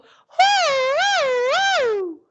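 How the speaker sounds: very high, loud siren hoots; head-voice whoos. Shown as a demonstration. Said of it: "do that again. Go".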